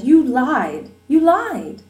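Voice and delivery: high, loud hurt outburst; repeated accusation. Acted. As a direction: hammer it home, betrayed.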